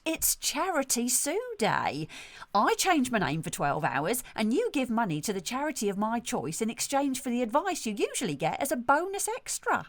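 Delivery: self-satisfied salon owner, lightly played; lightly voiced brusque hairdresser. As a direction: play a breezily tactless hairdresser. Sketch as salon owner Sue.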